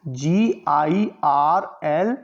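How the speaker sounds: "जीआईआरएल" अक्षर-अक्षर धीरे बोलना; "जीआईआरएल" के हर अक्षर को अलग-अलग धीरे से बोलें; spelling out. Shown as a demonstration. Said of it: "केवल इसको कैसे छोड़ देते हैं". ("जीआईआरएल" की स्पेलिंग धीरे-धीरे बताएँ)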